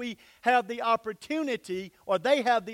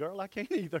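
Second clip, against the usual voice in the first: quieter muttered aside under the breath; 3 semitones lower, 6 dB quieter than usual. Retelling a reply to a woman who had just finished talking, reenacting an under-breath remark. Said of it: "under my breath".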